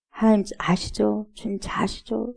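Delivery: soft, trusting appeal to God; 나직한 기도. Acted. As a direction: murmur it as a private prayer, fading. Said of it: "제가 이런 말 저런 말". (나직이 아뢰듯)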